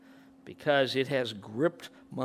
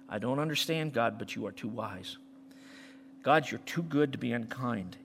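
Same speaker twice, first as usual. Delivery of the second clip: lowered voice ending in a whisper; prayer voice; 5 semitones lower than usual. Acted. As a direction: pray it gently, trusting. Voicing a prayer to God.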